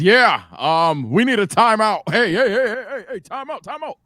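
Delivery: imitating an urgent, high-pitched timeout call; rapid-fire mock plea for the ref's attention. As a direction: act out flagging down the ref, voice jumping up. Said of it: "if that nigga says".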